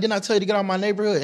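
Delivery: high, fast threatening bark; retold gunman threat. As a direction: fire it off like a gunman warning.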